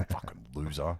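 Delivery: walking out of the coffee shop, muttered insult; under the breath. Retold or imitated. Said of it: "under my breath".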